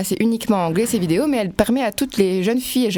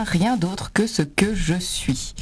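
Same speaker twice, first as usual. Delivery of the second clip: whispered ending; much slower than usual. Acted. Closing line of the read poem.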